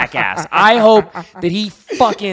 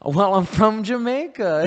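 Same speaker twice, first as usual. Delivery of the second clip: slow mock-Jamaican lilt; imitating a movie's fake Jamaican; fake Jamaican accent; 3 semitones higher than usual. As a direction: put on a hint of a phony Jamaican accent. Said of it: "he's using this fake Jamaican accent".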